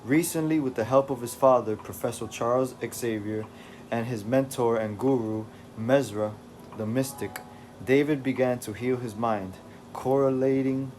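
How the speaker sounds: steady recap read for the stream; story narration. A narrator's reading. Streamer reading the recap to chat, steady narration. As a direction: read it like a comic book intro. Reads the comic recap aloud.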